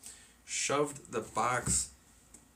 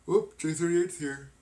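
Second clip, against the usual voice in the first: bright burst of surprise at a familiar name; excited greeting; 7 semitones higher, 8 dB louder than usual. Real, not acted. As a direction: call out happily, higher and louder. Greeting a viewer arriving in chat.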